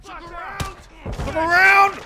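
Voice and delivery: high, very slow singsong call; drawn-out taunt. Pretend. Gamer coaxing an enemy round the corner, singsong call. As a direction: stretch it out like luring someone.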